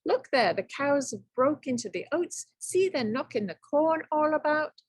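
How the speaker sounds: snippy, cross leprechaun; a touch of an irritated scold; sharply. Acted. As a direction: scold the pestering young man. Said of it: "answered Tom sharply".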